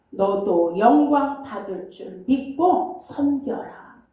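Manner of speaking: slow, solemn reading of hymn verses; hymn recitation. Acted. Pastor reciting the hymn's verses to the congregation, slow and solemn. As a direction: intone each verse like a prayer.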